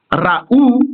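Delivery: raou as ra-OU, ending stressed; ra-OU, two syllables, weight on the second. Shown as a demonstration. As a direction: lean on the final ou of raou. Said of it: "vous accentuez donc sur le ou".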